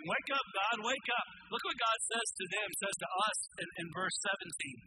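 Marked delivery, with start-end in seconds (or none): 0.0-1.3 pleading call. Retold or imitated. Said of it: "they were praying and saying".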